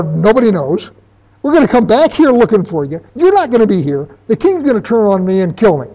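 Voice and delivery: high, loud frantic panic; very high panicked tone. Acted. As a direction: blurt it out like a terrified servant. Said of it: "said in a very high panicked tone".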